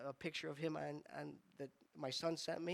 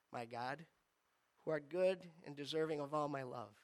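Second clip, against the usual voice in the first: recited prayer. Retold or imitated. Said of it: "I could almost recite it".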